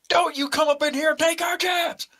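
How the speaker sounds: high mock southern accent. Player mocks the farmer accent.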